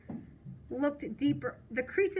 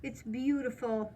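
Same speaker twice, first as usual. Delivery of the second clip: voice cracking; 2 semitones lower, 6 dB quieter than usual. Acted. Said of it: "my voice cracks".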